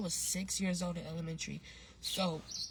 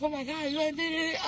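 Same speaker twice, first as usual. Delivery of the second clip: high, frantic panic in a put-on voice; panicked uncle; 9 semitones higher, 3 dB louder than usual. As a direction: imitate the uncle losing it, pitched way up. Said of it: "my uncle is freaking the fuck out".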